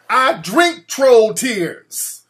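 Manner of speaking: very slow, loud vampire boast. Pretend. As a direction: stretch it out like a vampire gloating. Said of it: "I'm like a vampire".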